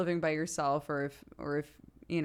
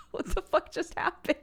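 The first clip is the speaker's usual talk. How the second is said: stunned whisper; 13 semitones higher than usual. Real, not acted. Parents stunned at sudden cry.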